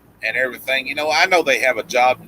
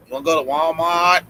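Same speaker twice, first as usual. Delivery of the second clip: put-on quick try at a Boston accent, first take; a light first go at Boston Vicky; 3 semitones higher than usual. Friends teasing him about his Boston accent, light Boston twang. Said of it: "That was the worst Boston accent ever".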